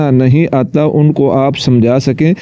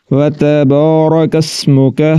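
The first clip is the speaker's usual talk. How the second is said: slow, careful recitation; much slower than usual. Shown as a demonstration. Teacher reciting the joined words. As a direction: recite it measured. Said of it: "recites the joined phrase".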